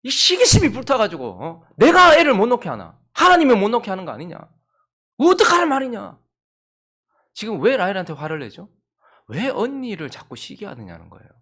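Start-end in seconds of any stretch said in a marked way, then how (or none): 1.8-6.2 loud furious shout at his wife; husband loudly snapping at his jealous wife; angry outburst. Acted. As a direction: let the anger blow up at her. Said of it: "화를 확 내는 거예요".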